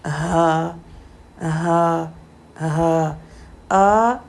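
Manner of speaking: हा and आ from the lowest part of the throat; deep throat letters. Shown as a demonstration. Teacher demonstrating hamza and ha from the deep throat. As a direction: push हा, आ from down by the chest. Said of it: "हमज़ा और हा यहाँ से निकलते हैं".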